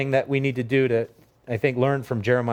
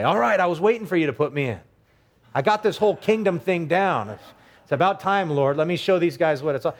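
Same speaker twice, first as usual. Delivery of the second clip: cocky eager player, pitched up; mock overconfidence; 3 semitones higher than usual. Self-assured recruit tells the Lord he's ready, cocky. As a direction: play someone far too sure of himself. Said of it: "a person who is not confident".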